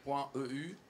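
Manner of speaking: English words in a French accent. Real, not acted. Speaker spelling out a petition's web address, French accent. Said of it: "Je fais l'accent français".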